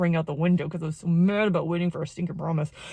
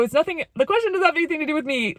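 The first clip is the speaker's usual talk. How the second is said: high, rushed retold denial; emotional, brushing off; 8 semitones higher, faster than usual. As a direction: hurriedly insist you are fine while emotional. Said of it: "but I'm super emotional".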